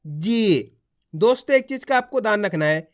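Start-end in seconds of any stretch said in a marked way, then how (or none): 0.0-0.8 जी with the ee held long and falling. Shown as a demonstration. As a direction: stretch the vowel of जी like a teacher. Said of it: "खींच के पढ़ा जाता है".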